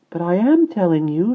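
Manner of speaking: put-on high, loud baby protest; indignant small voice. A narrator's reading. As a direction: insist as a frustrated infant. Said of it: "she protested".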